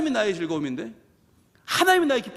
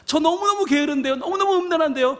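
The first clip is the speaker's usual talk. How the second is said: pleading sinner; 7 semitones higher than usual. Retold or imitated. Sinner asking God.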